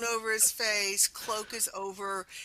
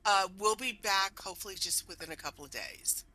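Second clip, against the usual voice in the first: hurried instructions. Acted. Player voices instructions to barkeep.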